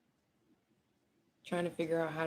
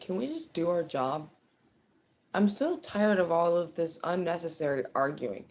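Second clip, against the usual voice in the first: fed up; 5 dB louder than usual. Retold or imitated. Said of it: "this person's just like".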